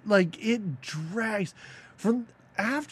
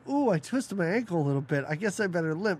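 gym class excuse; faster than usual. Retold or imitated. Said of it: "as if you're in gym class".

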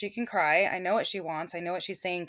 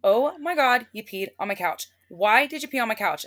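mock scolding; 3 semitones higher, 6 dB louder than usual. Owner scolding dog for peeing.

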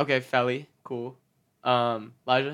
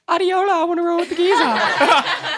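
put-on high laughing South African accent; 14 semitones higher, 5 dB louder than usual. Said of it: "in her little South African accent going".

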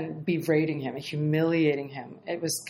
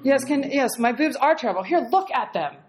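laughing mock agreement; 5 semitones higher than usual. Mock agreeing with insulting client.

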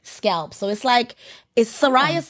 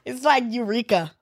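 excited and laughing; 4 semitones higher than usual. Real, not acted. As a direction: voice shoots up on explodes. Describing pimple popping excitedly.

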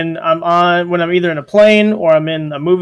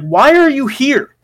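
mock indignant rant at the parent; exasperated moviegoer; 6 semitones higher than usual. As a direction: demand why they brought the baby. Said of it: "it's like".

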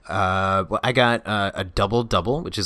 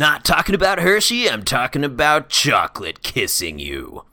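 high silly voice; 6 semitones higher, 4 dB louder than usual. Pretend. Hammed-up explanation.

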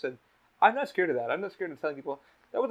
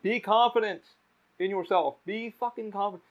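raised, high-pitched urging; retold yell; 6 semitones higher, 4 dB louder than usual. Host re-enacts yelling advice to a nervous man at the mic, retold yell. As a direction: call out encouragement as if across a room. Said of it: "I yelled out".

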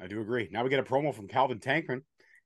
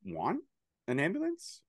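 uncaring deadpan; 2 semitones lower, 5 dB quieter than usual. Retold or imitated. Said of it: "the way she delivered that line".

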